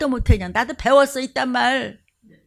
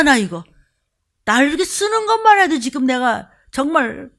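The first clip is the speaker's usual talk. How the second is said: lightly voiced prophet, burning and earnest; understated fervent resolve; Jeremiah resolved. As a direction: insist you cannot keep silent. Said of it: "그러고 있-, 있다가".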